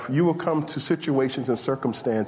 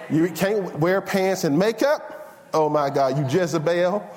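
hammed-up shocked disapproval; mock scandalized; 4 semitones higher than usual. Preacher imitating strict church folk condemning pants, mock outrage. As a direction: play-act horror, drawing out the accusation.

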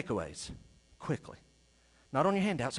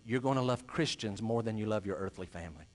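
low, softer, measured assurance; solemn promise; 10 semitones lower, 5 dB quieter than usual. Real, not acted. Preacher promising the congregation what eternity holds, quietly solemn. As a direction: state it quietly and gravely, pitched low.

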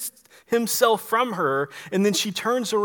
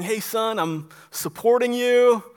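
mock cheerleader mom, building louder; imitated supportive mom; 4 dB louder than usual. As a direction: play a mom eagerly rallying behind her son. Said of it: "this is not Mary saying".

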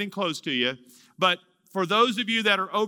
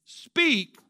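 lightly raised, reverent speak; a hint of reverent answer; 6 semitones higher than usual. Shown as a demonstration. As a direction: offer it up humbly. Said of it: "here's how you should respond".

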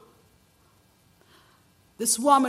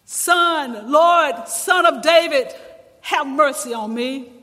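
a desperate mother crying out to Jesus, loud and pleading; 4 dB louder, slower than usual. Acted. Mother begs Jesus for her daughter, loud pleading cry. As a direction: call out for mercy, pleading. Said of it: "she cries out".

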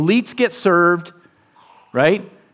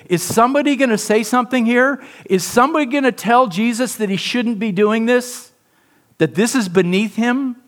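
lightly voiced disciples, higher and urgent; disciples wondering; 6 semitones higher than usual. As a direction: ask it as the stunned disciples would. Disciples' unspoken looks voiced.

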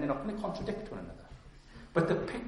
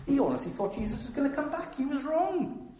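acted critic in a much higher pitch; mock dismissive critic; 11 semitones higher than usual. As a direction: imitate someone scoffing, voice climbing high. Acting out Paul's critics.

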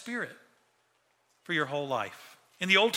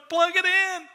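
even higher, louder, heaven crying out together; heaven calling out; 11 semitones higher, 4 dB louder than usual. Retold or imitated. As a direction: make it sound like all of heaven shouting. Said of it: "All of heaven's going".

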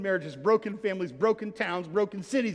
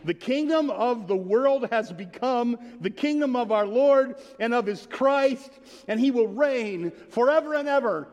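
raised and slowed, ringing out; loud heavenly proclamation; 5 semitones higher, 4 dB louder than usual. A narrator's reading. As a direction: announce it like a voice from heaven. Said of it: "a loud voice in heaven saying".

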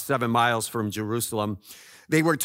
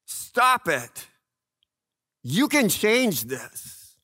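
high pleading cry, slow; anguished cry to heaven; crying out to God; 9 semitones higher, slower than usual. Acted. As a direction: beg God to stop it. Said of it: "They cry out".

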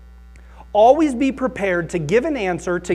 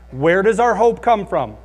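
loud question; 5 dB louder than usual. Shown as a demonstration. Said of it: "very loudly say the answer".

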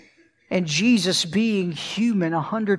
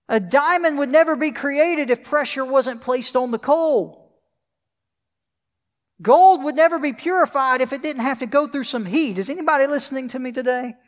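higher and louder, rising sermon fervor; preaching at full force; 4 semitones higher, 3 dB louder than usual. Acted. Preacher to his congregation, full-force preaching. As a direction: swell up and press the comfort home to them. Preacher climaxes on pressure theme.

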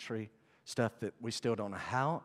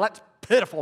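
mock scornful remark; dismissive pitiful; 9 semitones higher, 11 dB louder, faster than usual. Shown as a demonstration. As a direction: say it as a mild put-down. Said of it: "Not pitiful".

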